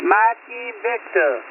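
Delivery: slow and deliberate, spelling it out; slow spelled-out call sign. Real, not acted. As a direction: say each letter slowly and clearly. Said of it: "I gotta say it again".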